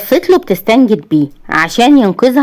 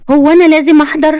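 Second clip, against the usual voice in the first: reluctant; 9 semitones higher, faster than usual. A narrator's reading. Wife reluctant to attend party.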